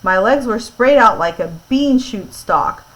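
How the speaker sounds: clear, lively read-aloud voice; story narration. A narrator's reading. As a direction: read it to a listening class.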